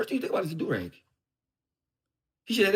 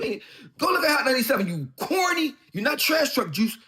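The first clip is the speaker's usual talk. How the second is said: heated jab; 8 semitones higher, 4 dB louder than usual. Real, not acted. Heated insult at rival.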